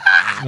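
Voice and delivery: short mock scream; imitated kids' scream. Kids run from dad at bedtime, mock scream. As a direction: give a brief imitation of children squealing. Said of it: "They all screaming".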